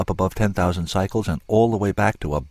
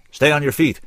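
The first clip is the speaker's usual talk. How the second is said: sharp, loud, higher command; snapped; 8 semitones higher, 5 dB louder than usual. A narrator's reading. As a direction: bark the order to keep her standing. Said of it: "he snapped".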